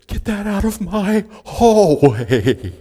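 high, loud retold yell; yelling to get it out. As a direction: order it out of the hallway, loud and high. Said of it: "found them and said".

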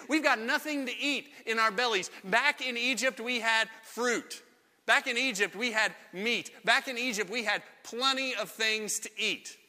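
put-on pine for Egypt like spoiled kids; mock-pitiful grumble about food; whiny complaint. Israelites voiced complaining about food.

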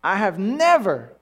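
slow, emphatic scripture reading, broken by pauses; exaggerated humility. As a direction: plead your unworthiness with heavy emphasis. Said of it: "it's called exaggerated humility".

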